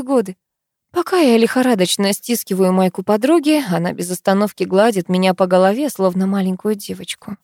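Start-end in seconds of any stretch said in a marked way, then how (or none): none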